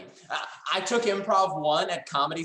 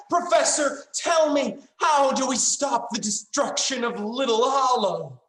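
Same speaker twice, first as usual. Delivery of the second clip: dramatic plea; 4 semitones higher than usual. Acted. Pleading acted line.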